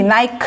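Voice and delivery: নাইক said low and short as "naik", not "nik"; pronunciation demo. Shown as a demonstration. Teacher isolating the root sound for students, low and brief. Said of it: "উচ্চারণটা নাইক হবে".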